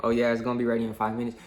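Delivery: rattled off quickly like an easy lie; fast breezy fib. Retold or imitated. Worker fobbing off a DoorDasher, in a fast breezy fib. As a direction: toss off a quick fake promise. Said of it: "being like".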